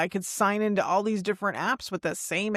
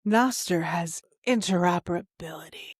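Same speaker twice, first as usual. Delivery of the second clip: put-on sexy voice; halfway between seduction and ASMR; 2 semitones lower than usual. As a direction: play at a sultry product line. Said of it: "if that was sexy or if that was A S M R".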